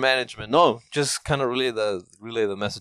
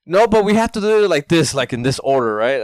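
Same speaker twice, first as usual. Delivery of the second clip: imitating the agent's thick Asian accent, higher and louder; mock thick Asian accent; 4 semitones higher, 5 dB louder than usual. Caller mocks stubborn support agent, thick Asian accent. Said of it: "Asians with a thick accent".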